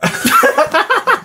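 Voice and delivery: squeaky little mushroom; high helium mushroom voice. Acted. Voix à l'hélium. (voix de champignon à l'hélium)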